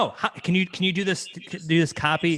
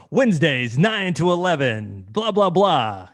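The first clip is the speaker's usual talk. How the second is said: loud, slow radio announcer promo; imitated DJ voice; 2 semitones higher, 5 dB louder, slower than usual. Host playfully copying the guest's announcer voice, DJ style. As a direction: stretch it out like a station DJ. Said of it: "it sounded kinda cool".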